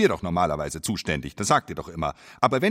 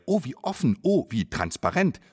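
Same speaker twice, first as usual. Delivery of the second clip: patronising praise; 3 semitones higher than usual. Acted. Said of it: "sagt ihr".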